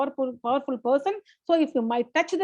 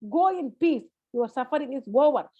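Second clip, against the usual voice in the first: lightly voiced tender Jesus; tender compassion. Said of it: "with under tender compassion".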